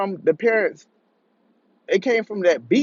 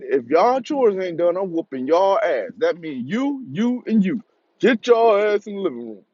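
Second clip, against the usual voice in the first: stern stepdad order. Retold or imitated. Stepdad's punishment order retold.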